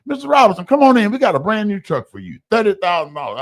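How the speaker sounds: mock upbeat car salesman greeting; cheery salesman. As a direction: sell the truck with a grin. Dealer welcoming him cheerfully.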